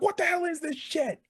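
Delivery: high-pitched mock dismay; Michael Cole, appalled. Commentator swearing at the attack, high-pitched dismay. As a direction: imitate an appalled announcer in a high voice. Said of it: "Michael Cole did swear".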